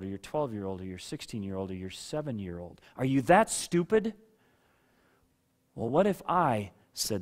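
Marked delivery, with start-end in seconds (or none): 3.0-4.1 raised, incredulous parent's jab; mock scolding, pitched up and louder; a touch of exasperated disbelief; mildly acted parental scolding.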